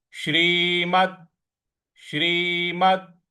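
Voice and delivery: श्रीमद slowed, weight on the final द; stress on final d. Shown as a demonstration. Teacher stresses the द in श्रीमद. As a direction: press the द at the end of श्रीमद. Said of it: "उस पर हमको आघात देना है".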